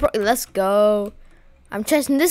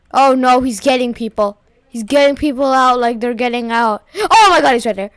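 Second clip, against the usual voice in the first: panicking gamer; 4 dB louder than usual. Real, not acted. Being hunted in the game.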